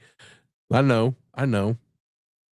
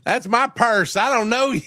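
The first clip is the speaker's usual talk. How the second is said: put-on high whiny kid voice; squeaky indignant boy; cartoon boy impression; 10 semitones higher than usual. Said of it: "Maximilian is a gifted mimic".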